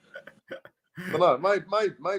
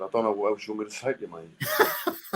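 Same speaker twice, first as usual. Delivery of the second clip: laughing through the retold answer, fast; laughing retort.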